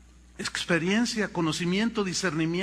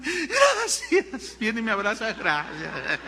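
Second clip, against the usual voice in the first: put-on grateful girl; slower than usual. Girl thanking, retold.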